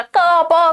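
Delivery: "का, पा" as drawn-out separate syllables; meaningless baby sounds. Shown as a demonstration. Teacher imitating a baby's cooing, drawn-out syllables. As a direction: stretch "का, पा" like sounds without meaning. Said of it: "कुछ भी आवाज निकालेगा".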